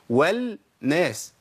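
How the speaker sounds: والناس with the لام merged into a doubled نون, slowly; والناس as wanNaas; assimilated lam. Shown as a demonstration. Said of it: "النون هنا تقبل الإدغام".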